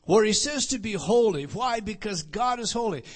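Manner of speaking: loud, emphatic preaching. Real, not acted. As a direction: drive it home to the congregation. Preaching at full force.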